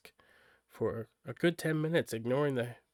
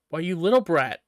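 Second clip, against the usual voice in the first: loud laughing scold as the grandma; louder, laughing old woman teasing her granddaughter; 4 semitones higher, 10 dB louder than usual. Acted. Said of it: "laughed the old woman".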